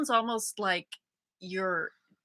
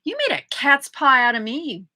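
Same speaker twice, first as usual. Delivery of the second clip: higher, louder mock accusation; mock outrage; 4 semitones higher, 5 dB louder than usual. Using the new phrase on co-host, mock outrage. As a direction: act wounded and accusing, hammed up.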